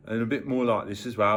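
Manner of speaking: Birmingham accent. Shown as a demonstration. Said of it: "Birmingham as well".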